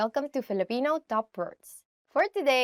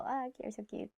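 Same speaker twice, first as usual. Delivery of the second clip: cooing; 10 dB quieter than usual. Shown as a demonstration. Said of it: "we say this for small people".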